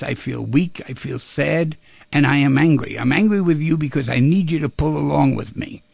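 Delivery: a hint of an angry parent; honest angry parent. Shown as a demonstration. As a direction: tell the daughter plainly how it feels. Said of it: "here's what I would say".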